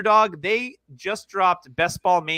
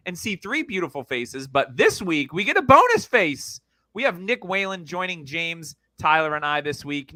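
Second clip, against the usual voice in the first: podcast host intro. Real, not acted. Show intro continues.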